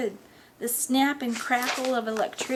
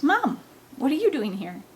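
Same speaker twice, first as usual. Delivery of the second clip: startled question, pitched up; surprised; 5 semitones higher, 3 dB louder than usual. Acted. Son caught out as his mother walks in, surprised. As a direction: blurt it in high surprise. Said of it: "I looked at her in surprise".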